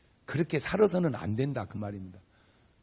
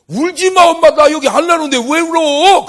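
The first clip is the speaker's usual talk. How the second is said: put-on much higher, loud child-like plea; son from heaven; 14 semitones higher, 16 dB louder than usual. Dead son calling from heaven to crying mother, high and loud.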